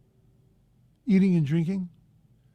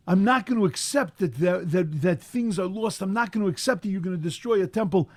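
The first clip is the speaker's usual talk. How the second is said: Rachel refusing, louder and insistent; defiant refusal; 3 dB louder than usual. Acted. Rachel Imenu refusing God's decree, defiant and loud. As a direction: stand your ground, won't accept it. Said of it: "she says".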